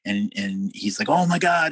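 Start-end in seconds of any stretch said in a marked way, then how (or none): 1.1-1.7 mock thrilled reaction, higher and louder; retold excitement. Musician reacting to meeting Cynthia Plastercaster, imitated excitement. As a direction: imitate a musician's eager surprise. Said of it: "He's, like, super".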